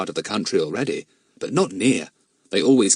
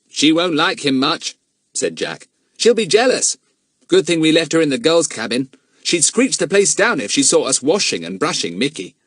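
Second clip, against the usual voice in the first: put-on boy voice; 8 semitones higher, 5 dB louder than usual. Jack voiced.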